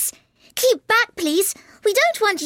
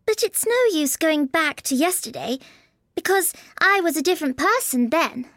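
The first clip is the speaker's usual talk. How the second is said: put-on high, tentative girlish voice; a little timid. A narrator's reading. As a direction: offer it shyly as Alice. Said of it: "said Alice a little timidly".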